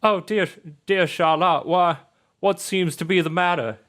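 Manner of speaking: high-pitched, fussing father; theatrically worried dad voice; concerned Jimmy John. Acted. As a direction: fret over an upset daughter. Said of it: "He's like".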